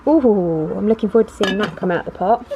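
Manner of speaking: muffled behind a plastic visor. Real, not acted. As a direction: talk through a face shield, muffled. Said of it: "if I sound a bit muffled".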